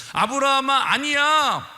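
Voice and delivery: a loud, firm voice of God; God's reassuring voice. Acted. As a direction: speak as God, calling then assuring. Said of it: "확실히 말씀해 주세요".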